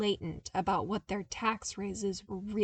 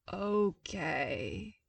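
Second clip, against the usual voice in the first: slowly stretched. Acted. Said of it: "he said slowly, stretching out the two syllables".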